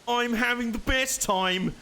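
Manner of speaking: slowly stretched, beaming delight; slow delighted gush. Pretend. Narrating a train toy's joy, slow and gleeful. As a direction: draw it out, savouring every word. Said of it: "repeated line, slow delighted".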